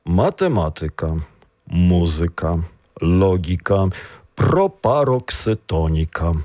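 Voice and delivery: "Математика" stressed on MA, "музика" on MU; antepenult stress. Shown as a demonstration. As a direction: put the weight on the third syllable from the end. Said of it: "Наголос пропарокситонічний".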